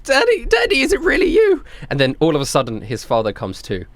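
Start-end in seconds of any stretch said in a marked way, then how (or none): 0.0-1.6 put-on high-pitched little kid; small child, hesitant and searching; hopeful child. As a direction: call to Daddy in a high child's voice. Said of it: "He's like".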